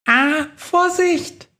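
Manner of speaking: squeaky mouse voice, high and frightened; tiny mouse crying out in alarm; high panicky squeak. Acted. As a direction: squeal it like a scared little mouse.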